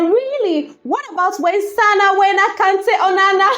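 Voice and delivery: high pitch, giggles taking over; laughing while reading. Real, not acted. Vlogger reading the comment section, laughing as she goes. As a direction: read it through rising laughter.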